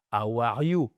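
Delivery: "how are you" with a heavy French accent, dropped h and French r; mock the French-accented "how are you"; comic French-accented English. Shown as a demonstration. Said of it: "on peut pas prononcer comme ça".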